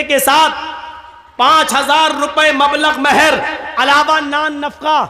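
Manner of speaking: loud formal nikah proclamation; loud clear announcement. Shown as a demonstration. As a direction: proclaim the nikah terms loudly across the room. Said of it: "آپ پہلی بار اتنی زور سے بولیے کہ لڑکی سن لے".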